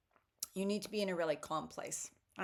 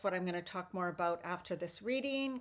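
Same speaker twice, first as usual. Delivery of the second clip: ordinary talk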